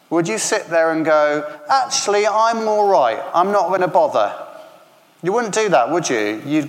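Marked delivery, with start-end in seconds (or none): 1.7-4.3 higher, breezy brush-off; dismissive. Retold or imitated. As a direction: shrug it off carelessly. Imagined patient shrugging off doctor.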